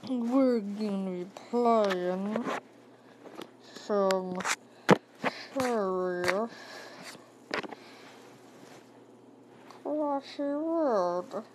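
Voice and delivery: lightly voiced Grinch, slow and drawn out; slow, sly Grinch greeting, only lightly put on; Grinch accent. Greeting the viewers as the Grinch, slow mock Grinch voice. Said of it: "That was my best Grinch accent".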